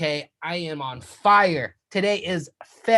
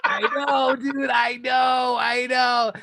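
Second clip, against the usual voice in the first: excited; 6 semitones higher, slower than usual. Real, not acted. Excited agreement.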